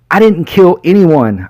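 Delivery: high, slow pleading denial; sobbing. A narrator's reading. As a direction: sob it out from the floor. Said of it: "I sobbed".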